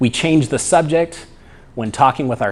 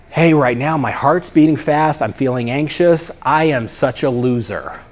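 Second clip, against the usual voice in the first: self-judging. Shown as a demonstration. Guy at the party talking to himself, self-judging. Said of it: "hear how the judgment just kinda jutted itself in".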